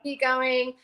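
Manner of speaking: high-pitched mock bewilderment; puzzled foreign contacts. Overseas leaders asking about Australia, high mock puzzlement. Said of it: "they bring it up every time they go".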